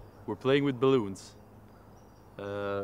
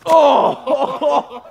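shout; 13 semitones higher, 16 dB louder than usual. Real, not acted. Shout while pressing balloon.

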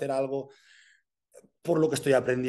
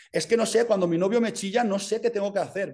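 put-on whiny confused girlfriend; 4 semitones higher, 4 dB louder, faster than usual.

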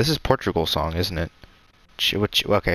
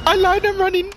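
high, loud gleeful cry; excited running off; 4 dB louder than usual. Real, not acted. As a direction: shout it as you flee. Fleeing, laughing.

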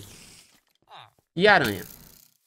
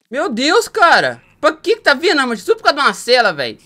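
being chased; 7 semitones higher, 8 dB louder than usual. Real, not acted. Mobs chasing him in game.

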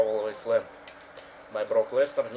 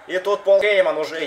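excited; 8 semitones higher, 8 dB louder than usual. Real, not acted. Excited commentary.

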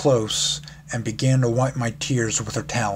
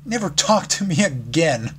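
sobbing outburst; 5 semitones higher than usual. Acted. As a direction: fling it at her as you run off. I let out a long, heavy sob.

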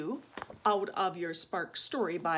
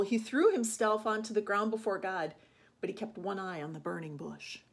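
story reading. A narrator's reading. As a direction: bring the story to a gentle close. Reads Bible story to children.

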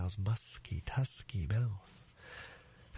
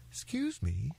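polite little elephant's child, lightly voiced; 4 semitones higher than usual. Elephant's child addresses the crocodile, most politely. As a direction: ask with careful manners. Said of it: "said the elephant's child most politely".

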